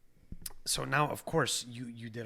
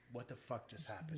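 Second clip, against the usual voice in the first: hushed imitation of a stunned crowd; stunned disbelief; 10 dB quieter than usual. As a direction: drop to a soft, amazed aside, mimicking onlookers. Stunned crowd's reaction acted out.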